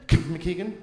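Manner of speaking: "Kemp McKeegan" run together into a mumble; garbled name. Shown as a demonstration. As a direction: swallow the vowel of "Kemp" and stumble into "McKeegan". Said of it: "Are you having a stroke?".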